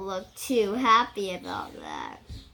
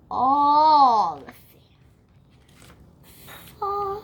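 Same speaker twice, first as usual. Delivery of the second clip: alarmed cry; 3 semitones higher, 11 dB louder, much slower than usual. Acted. Children see fish fall.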